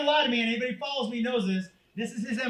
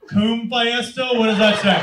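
slow fake struggle to read; feigned confusion, drawn out; mock-innocent stumbling; 7 dB louder, slower than usual. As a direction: play dumb sounding it out. Son feigning he can't read.

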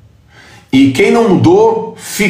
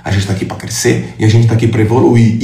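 usual speaking voice

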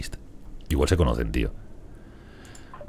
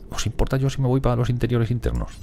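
high, put-on meek voice; squeaky timid settler asking to go inside; timid colonist voice; 10 semitones higher than usual. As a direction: ask permission like a shy settler. Voicing timid colonist again.

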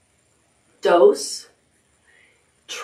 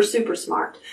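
whispered praise; 7 dB quieter than usual. Real, not acted. Praising children softly.

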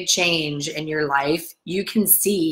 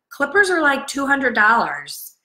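incredulous outburst; 8 semitones higher, 3 dB louder than usual. Real, not acted. Outraged at broken clippers.

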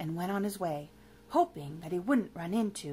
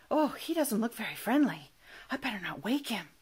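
hushed aside, trailing to a whisper; don't wake the sleeper; hushed worry. Acted. Monster by the sleeping vampire, hushed.

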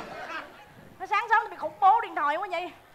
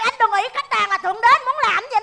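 heated warning to a customer; worked-up scolding; 2 semitones higher, 3 dB louder than usual. Acted. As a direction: tell him off, losing your calm. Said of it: "Bình tĩnh, bình tĩnh".

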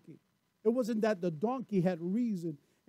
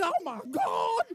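laughing; 8 semitones higher, slower than usual. Real, not acted. Laughing at own joke.

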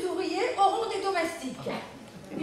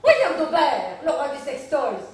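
laughing gush; 7 dB louder than usual. Acted. Widow gushing about William.

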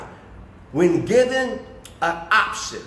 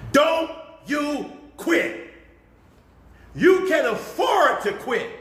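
coach's voice. Acted. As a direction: push them like a coach at halftime. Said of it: "I'm coming at you with my coach's voice".

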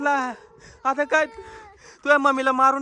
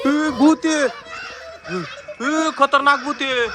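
raised, urgent warning call; alarmed cry; slower than usual. Acted. Father warns his family of a ghost, alarmed.

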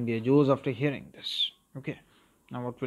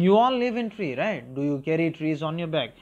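mocking bully. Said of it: "he pointed out to the lizard, saying".

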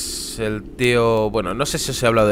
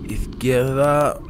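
slow breathy whisper; 3 semitones higher, much slower than usual. Real, not acted. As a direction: breathe the word out slowly. Whispered repeat of direction.

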